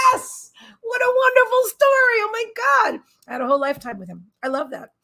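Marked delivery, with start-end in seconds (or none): 0.1-3.0 gushing, overjoyed reaction; excited gush. Real, not acted. Reacting to a viewer's story about her dog, gushing high. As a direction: voice leaps up high and loud with delight.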